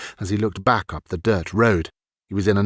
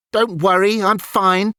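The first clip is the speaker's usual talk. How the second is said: snapped; 10 semitones higher than usual. A narrator's reading. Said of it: "Ilian snapped".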